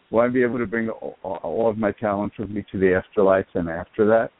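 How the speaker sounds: muffled, as if a hand covered the mouth; muffled phone line, hard to make out. Real, not acted. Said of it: "the call is so muffled".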